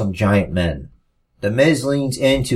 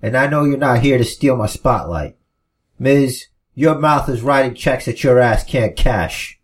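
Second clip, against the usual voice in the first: put-on fired-up babyface promo; 4 semitones higher than usual. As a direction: throw the match back in his face. Finn snapping back at Miz.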